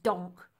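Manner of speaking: short, punched donk; abrupt sound effect; impact sound word. A narrator's reading. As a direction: land it like a heavy stamp. Narrator voices stamp on toes.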